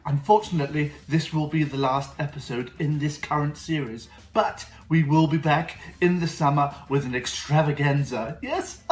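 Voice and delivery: put-on bright, eager kids show host; host a kids science show; overbright kids party host. Kids show host persona Mister Peculiar.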